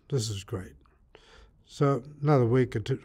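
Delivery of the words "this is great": whispered delight. Retold or imitated. Savouring his supplies.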